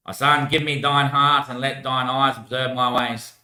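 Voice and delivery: slow, deliberate verse recital; measured recitation of a proverb; scripture reading. Acted. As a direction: read it out slowly like scripture. Reads a Bible verse.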